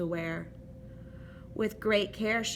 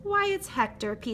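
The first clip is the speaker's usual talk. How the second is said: surprised; 12 semitones higher than usual. Acted. Adeline surprised at her door.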